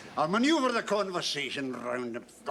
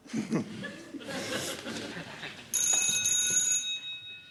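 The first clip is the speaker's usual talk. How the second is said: gleeful laugh. Acted. After booking trunk call.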